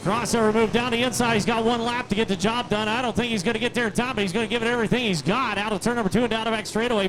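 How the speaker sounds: live play-by-play call; motorsport commentator. Real, not acted. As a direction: call the race as it happens. Final lap call.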